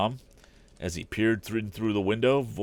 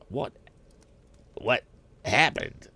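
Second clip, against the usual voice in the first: demanding; 5 semitones higher, slower than usual. A narrator's reading. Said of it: "as if he had a right to know".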